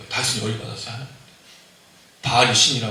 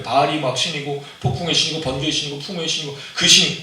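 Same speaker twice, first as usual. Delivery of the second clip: ordinary delivery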